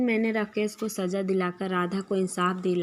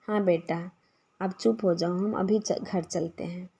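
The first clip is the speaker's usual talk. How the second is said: put-on soothing a crying child; 4 dB quieter than usual. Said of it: "उसको समझाने लगी".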